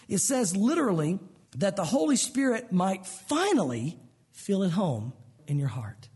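slow, dropping to a whisper; hushed emphasis. Shown as a demonstration. Preacher whispering the literal Greek to the congregation. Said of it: "does it bring it home in the wording here".

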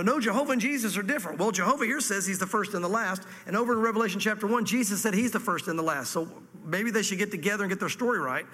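mildly sarcastic rebuttal; matter-of-fact with a sarcastic edge. Real, not acted. Preacher mock-arguing with Jehovah's Witnesses, sarcastic. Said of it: "I'm being sarcastic".

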